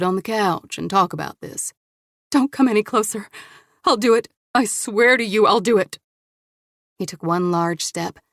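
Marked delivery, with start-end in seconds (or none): 2.3-6.0 raised, louder frightened threat; desperate warning. Acted. Woman warns the advancing man, frightened and loud. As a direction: warn him off with a strained voice.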